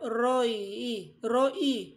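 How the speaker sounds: "Roy" said as one clear, careful syllable; Hebrew pronunciation. Shown as a demonstration. Pastor teaching the Hebrew word Roy, careful and clear. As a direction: give "Roy" slowly for the class to copy. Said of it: "Yan ang bigkas niyan sa Hebrew".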